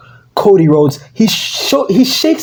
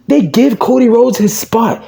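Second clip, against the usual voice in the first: normal talking voice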